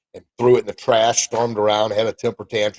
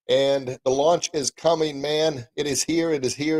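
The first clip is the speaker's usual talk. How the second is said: higher, quick upbeat repeats; excited announcement; 6 semitones higher than usual. Real, not acted. Author telling listeners his book is here, excited. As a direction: chant it out with eager glee.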